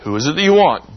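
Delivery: commanding Jesus, prodding the soldiers to get up; Jesus in charge. Retold or imitated. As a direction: rouse them with a firm, teasing challenge. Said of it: "as if to say".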